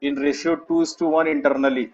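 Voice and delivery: slow, word-by-word dictation; drawn-out words for students writing along. Real, not acted. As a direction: spell out the note slowly, pausing long between phrases. Teacher repeats dictation for note-taking.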